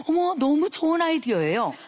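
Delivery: high, bright-eyed gushing praise with a laugh; gushing chatbot. Retold or imitated. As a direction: play the eager AI gushing over the idea. AI chatbot gushing over idea.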